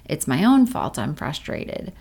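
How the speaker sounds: exasperated self-blame, lightly played; self-judging inner voice. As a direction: voice the nagging inner critic. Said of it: "Oftentimes we judge ourselves".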